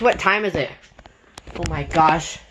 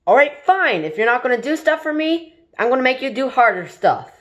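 fast annoyed threat; 2 semitones higher, faster than usual. Acted. User threatening the useless smart speaker. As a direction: rattle it off as a petty threat.

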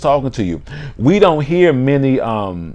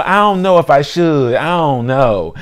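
put-on hesitant girl; 2 semitones higher than usual. Girl tempted by the invitation, hesitant. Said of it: "you be like".

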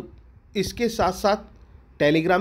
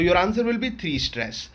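slow dictation; much slower than usual. Shown as a demonstration. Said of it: "exam answer dictated".

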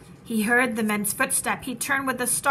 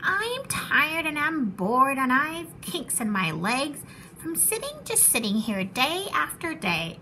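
whiny, bored lazy bird. Acted. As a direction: sigh through it like a spoiled bird. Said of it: "Sighed Maisie".

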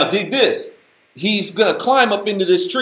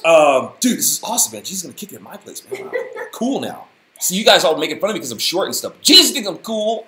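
laughing Zacchaeus. Acted. Zacchaeus voiced, preacher laughing through.

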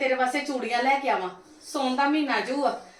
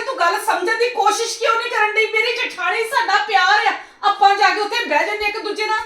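higher, raised insistence; heated pleading; 5 semitones higher than usual. Acted. Mother-in-law insisting to Ridhi about her sister-in-law, heated. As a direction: make her understand, urgently.

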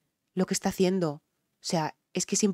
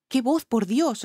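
1 amazed exclamation; 5 semitones higher, 4 dB louder, slower than usual. Real, not acted. Reacting to a stunning voice.

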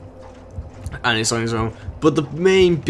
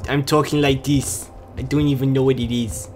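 put-on New Jersey-Jewish accent. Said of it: "that is gonna be one of my new favorite accents".

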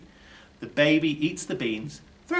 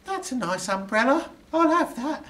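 higher, different burglar voice; intruder's voice; 13 semitones higher, 4 dB louder than usual. A narrator's reading. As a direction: voice the unseen intruder. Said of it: "a voice says".

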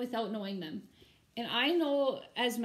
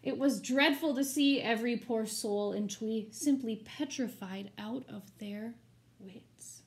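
rhythmic, storybook read-aloud; story narration. A narrator's reading. Teacher reading a rhyming picture book to her students, expressive storybook narration. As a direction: read the rhymes to the class with drama.

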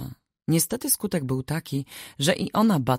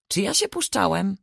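higher-pitched, indignant grumble; grumpy retort; 7 semitones higher than usual. A narrator's reading. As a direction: grumble back at the accusation. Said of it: "burknął Alojzy". (burkliwa, oburzona odpowiedź)

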